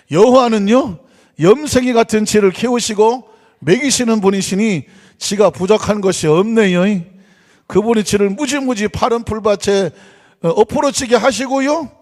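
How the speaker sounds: playful Chungcheong dialect reading. Shown as a demonstration. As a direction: read scripture as a Chungcheong villager would. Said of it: "충청도 사투리 가볼까요?".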